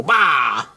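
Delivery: short exclaimed "bah"; sudden outburst. Retold or imitated. Man retelling his fumbling first time, sudden exclamation. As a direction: burst out with one quick noise.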